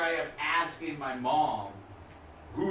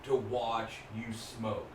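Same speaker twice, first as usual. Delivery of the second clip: mom pleading; 4 semitones lower, 6 dB quieter than usual. Retold or imitated. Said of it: "my mom would be like".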